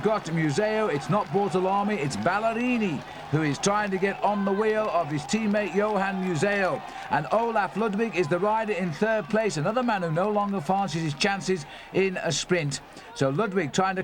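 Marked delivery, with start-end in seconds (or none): 0.0-11.6 climbing pitch, calling the attack with a shout; rising excitement. Real, not acted. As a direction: lift the voice as the riders go clear. Attack on the climb, live call.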